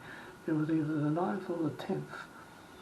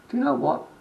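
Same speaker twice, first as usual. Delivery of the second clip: retold indignation; 7 semitones higher, 10 dB louder than usual. Confronting the manager, retold.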